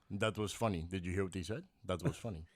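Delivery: low, soft Russian deadpan; unsmiling deadpan. Retold or imitated. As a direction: acknowledge a joke without any laugh. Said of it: "He didn't laugh. He didn't smile".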